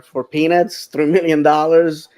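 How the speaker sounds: lightly sarcastic with a laugh; gentle sarcasm, laughing midway. Real, not acted. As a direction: toss in a mildly ironic, amused aside. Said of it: "I say that sarcastically".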